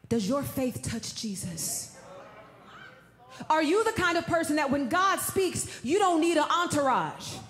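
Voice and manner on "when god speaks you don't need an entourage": preaching at full force. Acted. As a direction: drive it home like a preacher. Preaching climax.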